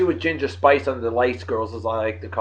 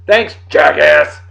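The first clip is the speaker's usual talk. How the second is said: mock sarcastic thanks; 9 dB louder, slower than usual. Teasing his old teacher Jeff.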